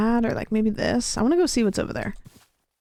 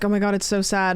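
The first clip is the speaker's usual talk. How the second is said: light mock-sad quote, barely voiced; quoting everybody. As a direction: toss off what everyone says, almost plain. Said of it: "And everybody's like".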